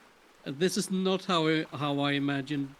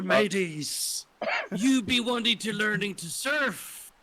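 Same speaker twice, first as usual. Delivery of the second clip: put-on hearty, higher old sea dog; pirate voice; 7 semitones higher, 6 dB louder, slower than usual. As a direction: call out like a pirate captain. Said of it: "he just shouts".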